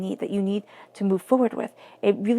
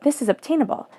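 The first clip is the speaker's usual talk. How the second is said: THIS IS OBTAINABLE pitched higher, rising like a question; higher-voiced, wondering lift on OBTAINABLE; question to oneself; 5 semitones higher than usual. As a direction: turn it into a self-doubting question on OBTAINABLE. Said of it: "like a question to yourself".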